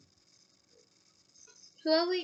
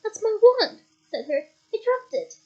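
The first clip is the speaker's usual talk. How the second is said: insistent claim; 7 semitones higher, 9 dB louder than usual. Acted. Harry insisting loudly.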